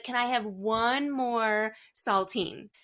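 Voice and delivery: slow, pleading mock kid voice, lightly done; whiny little kid. Mom voicing her son at bedtime.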